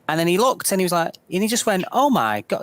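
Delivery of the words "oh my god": higher-pitched imitation of a startled man; mock startled reaction; startled exclamation. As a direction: retell a stranger's shock, voice raised in pitch. Retelling stranger's shock at the cane.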